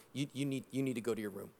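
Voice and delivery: low, hushed wife's command; quiet retold order. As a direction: tell him quietly to go to his room.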